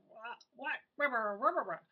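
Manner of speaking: loud nonsense yelling right back; mock yelling back. Parent yelling back at the screaming kid, loud. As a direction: yell back to match the kid.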